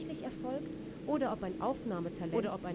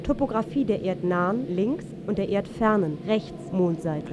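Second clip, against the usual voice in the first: booming announcer voice, much louder; loud declaiming announcer, slowing at the end; loud announcement; 10 dB louder than usual. Acted. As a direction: call it out like a public announcer. Map announcer calling out loudly.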